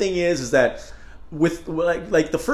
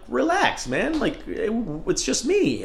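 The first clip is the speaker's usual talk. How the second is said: higher, laid-back calming voice; lightly voiced friend; mock friend; 9 semitones higher, slower than usual. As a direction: imitate a buddy saying chill. Friends telling him relax.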